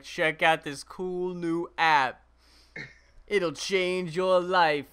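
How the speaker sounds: slow, lightly mocked sales pitch; understated parody pitchman, drawn out; app promoter. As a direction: drawl it like a canned plug. Imitating app promoter in videos.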